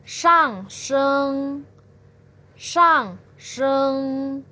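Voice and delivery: shang sheng falling sharply; fourth tone name. Shown as a demonstration. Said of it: "nada keempat ini disebut juga dengan".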